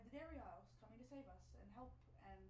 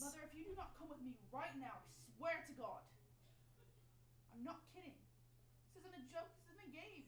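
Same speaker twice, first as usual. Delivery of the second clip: urgent pleading; 5 semitones higher, 4 dB louder than usual. Acted. Daughter pleads urgently with mother.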